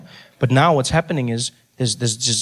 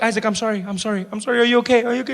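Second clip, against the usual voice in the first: acted flustered attempt to calm a child; hurried apology; 9 semitones higher, faster than usual. Big brother soothing crying brother, hurried mock apology.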